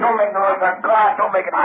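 urgent hiss. Acted. Hushing a screaming partner.

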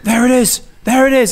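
cheeky mock triumph; excited exclaim. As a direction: crow it like you've caught someone. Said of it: "And then he goes".

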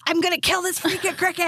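high-pitched exasperated mimicry; worked-up outburst. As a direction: imitate a frantic sister-in-law answering the phone. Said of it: "she gets real worked up real easy".

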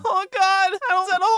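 high-pitched cartoon kid; fretful squeaky sidekick voice; Morty. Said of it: "could you do a Morty?".

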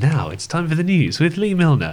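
lightly voiced TV news intro; mock news announcer. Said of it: "how does the news theme go again".

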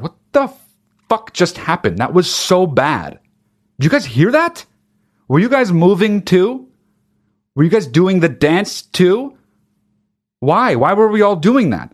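mock disbelief, pitch lifting on questions; imitated bewildered crowd. Dancers asking each other what just happened, mock bewilderment. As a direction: act out a crowd baffled by itself. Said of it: "everyone's like".

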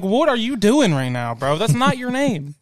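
high, exasperated retold protest; incredulous protest. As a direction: protest in comic disbelief. Retelling his protest at the name.

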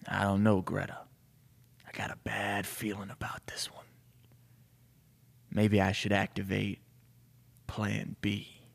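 low-volume, weary grizzled chief; hushed, slightly gruff chief voice; grizzled police chief. Acted. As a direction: brood aloud as a troubled old cop. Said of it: "he's like, the deep, grizzled police chief".

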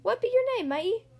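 high, loud pirate question; hearty pirate captain asking; head pirate. A narrator's reading. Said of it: "the head pirate asked".

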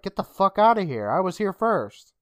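lightly acted sassy brush-off; sassy retort. Girl telling intruders to leave her hole, sassy. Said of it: "she gets sassy with him".

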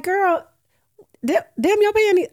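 high, loud mock scolding; excited exclamation. Teasing her friend about old panties, loud excited. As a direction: hype your friend up, half laughing. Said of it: "I was like".

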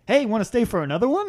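David impression. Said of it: "That's my David impression".

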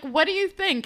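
high, bright mock question; hopeful friend. Retelling a show, girl asks her friend's opinion in a high voice. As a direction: ask for approval like a teen. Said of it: "and she's like".

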